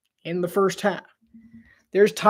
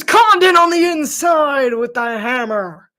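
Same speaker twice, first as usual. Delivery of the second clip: excited call; 4 semitones higher, 6 dB louder than usual. Real, not acted. Call of a dunk.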